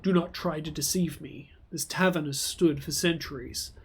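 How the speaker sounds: low, stern spirit voice; sleeping old god. Acted. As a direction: warn the intruder gravely. Guardian speaks.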